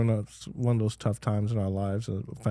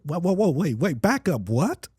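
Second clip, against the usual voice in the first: retold surprise; 5 semitones higher than usual. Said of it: "And I said".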